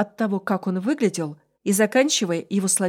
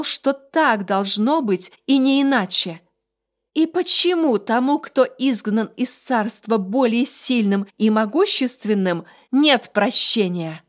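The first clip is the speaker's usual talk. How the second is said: angry challenge; 2 semitones higher, 4 dB louder, slower than usual. Acted. Heroine in rage at creature.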